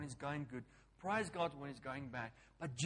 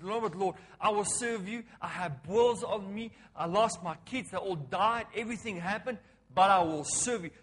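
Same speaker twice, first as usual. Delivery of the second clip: tag; 3 semitones higher, 8 dB louder than usual. Retold or imitated. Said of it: "But his whole attitude".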